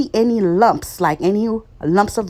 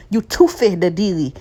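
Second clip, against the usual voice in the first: Creole phrase. Shown as a demonstration. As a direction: say You toothie the dealy with a Creole lilt, unlike her usual voice. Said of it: "That's how they say it in Creole".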